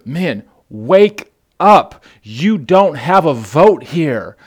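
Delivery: slow forceful call. Real, not acted. Preacher rousing the men, slow and forceful. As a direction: rouse them, slow and firm.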